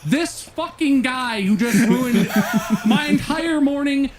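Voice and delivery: high, emphatic, indignant venting; livid rant. Real, not acted. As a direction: stretch out the opening words, then pile up grievances. Still livid, ranting about the worker.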